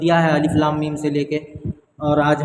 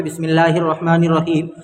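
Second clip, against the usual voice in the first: recitation; 3 dB louder than usual. Shown as a demonstration. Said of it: "किस तरीके से पहले पढ़ना देख लीजिए".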